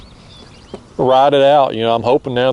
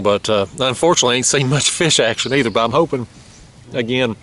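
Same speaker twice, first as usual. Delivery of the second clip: mouthful of sunflower seeds; talking around sunflower seeds; mouth full; faster than usual. Real, not acted. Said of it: "I got a mouthful of sunflower seeds".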